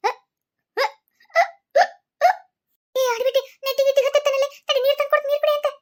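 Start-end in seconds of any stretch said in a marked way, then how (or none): 1.3-2.3 loud, high drawn-out wail. Acted. Daughter-in-law wailing on hunger strike.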